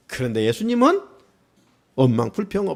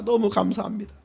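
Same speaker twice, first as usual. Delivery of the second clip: softer thanks; 8 dB quieter than usual. Retold or imitated. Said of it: "우리 같으면".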